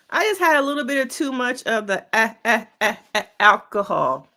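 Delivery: stammering eh, eh before alcohol; mock hesitant excuse. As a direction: fake a fumbling drunk apology.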